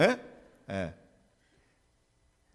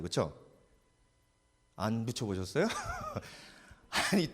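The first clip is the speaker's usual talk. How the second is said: ordinary talk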